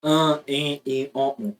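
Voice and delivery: each vowel said nasalized, one by one; teacher models the nasal vowels slowly. Shown as a demonstration. Teacher shows the class the nasal vowels, nasalized. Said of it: "representar a mesma vogal, só que com tio".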